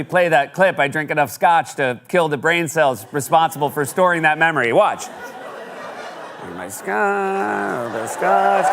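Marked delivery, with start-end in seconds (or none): 5.1-8.7 laughing. Pretend. Mock horror at clip.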